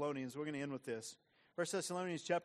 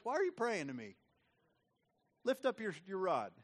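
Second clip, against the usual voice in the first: higher, louder mock rebuke; God rebuking; 3 semitones higher, 4 dB louder than usual. God rebuking Moses at the sea, impatient. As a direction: tell Moses to get moving. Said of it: "God says".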